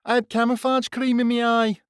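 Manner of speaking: put-on young soldier protesting hotly to his sergeant major. A narrator's reading. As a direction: insist you weren't crying, stung. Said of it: "protested Greaves hotly".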